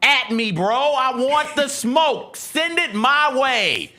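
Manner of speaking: mock challenge. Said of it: "Clip that shit".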